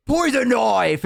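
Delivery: high, delighted call; imitated cheery hail. Orcs greeting their elf friend in the tavern, delighted. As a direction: hail a favourite pal across the room.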